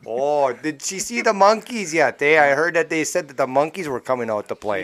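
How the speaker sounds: put-on Yooper local asking eagerly; playful Yooper bar talk; Yooper accent. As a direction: chat in a broad mock Yooper accent. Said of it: "just talk like that".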